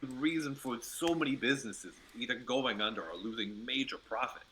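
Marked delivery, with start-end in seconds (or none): 0.0-1.4 light New York gangster voice; tough-guy New York delivery; New York accent. Acted. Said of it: "in a New York accent".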